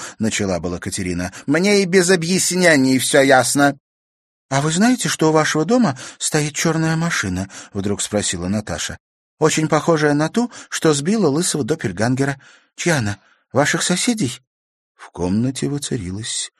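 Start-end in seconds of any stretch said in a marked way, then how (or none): 1.5-3.8 higher, louder dismissive grandmother; curt old woman. Acted. Grandmother cutting her off. 4.5-14.4 put-on higher, brighter girl voice asking innocently; young girl.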